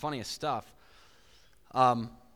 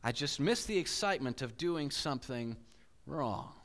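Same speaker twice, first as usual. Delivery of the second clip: reflective reread; 4 dB quieter than usual. Shown as a demonstration. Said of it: "But notice what he said".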